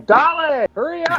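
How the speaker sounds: high, loud hype-man yell; a rapper yelling. Retold or imitated. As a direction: holler it like a rapper in the ring. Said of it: "Pitbull's in the ring just yelling".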